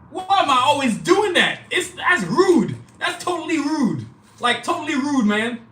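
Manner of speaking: high, drawn-out exasperation; mock indignation at your own slip; playful self-scolding. Real, not acted. Scolds himself for leaving someone out.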